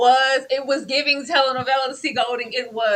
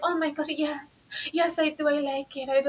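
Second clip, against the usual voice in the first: mock swooning bride; 8 dB quieter than usual. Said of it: "she's like".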